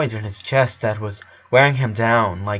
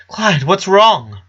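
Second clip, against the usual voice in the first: higher, louder, slow and anxious; worried father; 8 semitones higher, 5 dB louder, slower than usual. A narrator's reading. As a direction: ask with mounting worry.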